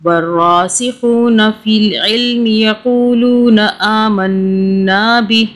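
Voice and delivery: measured melodic tilawat; Quran recitation. Acted. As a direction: recite the verse in steady chanted tajweed. (तिलावत के अंदाज़ में ठहरकर पढ़ना)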